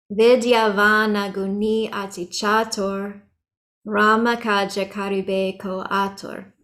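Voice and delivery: Chatur and Atur ending on the R, no A; recited evenly, stop Chatur and Atur at the R; final A dropped. Shown as a demonstration. Teacher reciting verse lines as examples, final A left off Chatur and Atur. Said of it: "without the A at the end".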